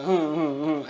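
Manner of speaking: stamping grunts, hmm hmm; little angry huffs in rhythm; mock angry grunts. Shown as a demonstration. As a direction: grunt with each stamp like a sulking child. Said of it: "ऐसे पैर मारने लगा".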